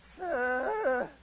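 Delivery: lightly imitated meek recruit; Freeman Spears. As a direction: report it earnestly, stretching each sir. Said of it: "He talked just like that".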